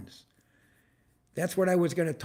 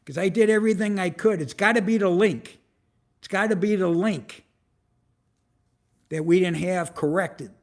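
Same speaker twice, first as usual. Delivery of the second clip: fast, loud, frustrated venting; real annoyance pushing the words out quickly and loudly; 5 dB louder than usual. Real, not acted. Venting to viewers about the broken YouTube link, fast and loud. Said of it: "she knows I'm pissed".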